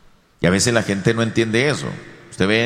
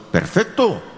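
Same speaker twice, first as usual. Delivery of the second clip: approving exclaim; 9 semitones higher than usual. Acted. Approving the called servant.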